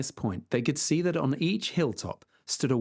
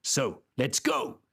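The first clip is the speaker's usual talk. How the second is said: triumphant; slower than usual. Acted. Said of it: "said Don Quixote triumphantly".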